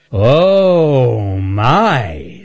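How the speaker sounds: delighted surprise. Acted. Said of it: "said Earl".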